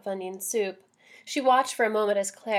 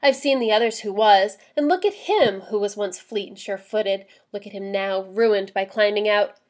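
louder, fierce warning; 4 dB louder than usual. Acted. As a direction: hammer home the danger fiercely. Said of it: "She turned to Claire fiercely".

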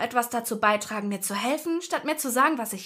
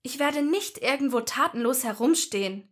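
put-on higher, stubborn scolding girl; 5 semitones higher than usual. A narrator's reading. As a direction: refuse angrily. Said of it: "schimpfte Ginny".

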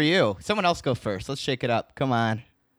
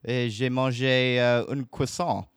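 bad French accent. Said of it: "my accent is terrible".

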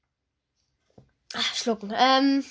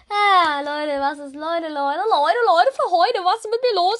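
excited rising calls; 3 dB louder than usual. Real, not acted. Silly vlogger getting giddy at his listeners, excited calls. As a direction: build up giddy and loud.

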